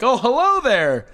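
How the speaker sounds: slow, drawn-out hello; a lightly voiced janitor saying hi. Janitor greets kids in story.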